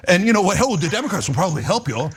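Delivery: panting after a rant; winded, breathless ranting; out of breath. Real, not acted. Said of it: "He's out of breath".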